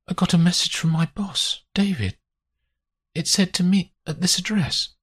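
high-voiced woman recounting events; injured woman explaining. Grace telling Olivia why she came, high-voiced explanation.

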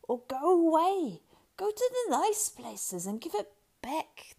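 high, loud wheedling creature voice; Gollum pleading. A narrator's reading. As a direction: beg high and urgently.

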